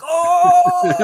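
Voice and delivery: high, loud teasing "Oh!"; mock cheer from the entourage; hyped crowd whoop. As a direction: call out like the boys backing him up. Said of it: "his boys were in the background, like".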